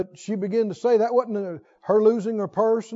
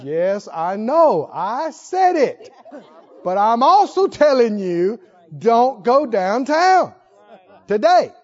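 slow and louder, each word weighed; slow firm Holy Ghost; 4 dB louder, slower than usual. Retold or imitated. The Holy Ghost repeats the warning to a stubborn believer, slow and firm. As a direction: lay down the warning slowly, like a final word. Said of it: "And Holy Ghost says".

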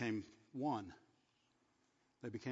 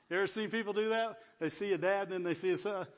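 excited preaching; 7 semitones higher, 7 dB louder than usual. Acted. Preacher to congregation about fathers and sons, fervent high loud delivery. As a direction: voice climbs high and loud as the point lands. Preacher rising to emphatic point.

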